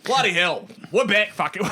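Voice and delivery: hammed-up Aussie outburst; Australian accent. Co-host celebrating being back on the mic, hammed-up Australian accent. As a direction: exclaim it in broad Australian. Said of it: "We're back and we're fucking Aussie".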